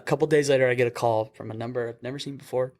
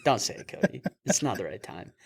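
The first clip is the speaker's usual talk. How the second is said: inner voice; 5 dB quieter than usual. Retold or imitated. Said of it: "in my head, I was like".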